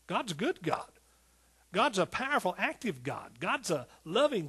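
swinging, rhythmic preacher's cadence; fervent preaching. Real, not acted. Preacher telling the congregation how big God is, fervent preaching. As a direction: preach it with rising conviction.

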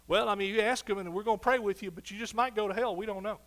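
hammed-up wishy-washy shrug; mock doubtful church. Pastor mimicking churches that promise nothing, mock hedging. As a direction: mimic a hedging preacher, mocking. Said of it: "any church that talks like that".

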